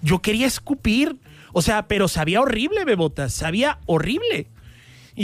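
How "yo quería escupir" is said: ordinary talk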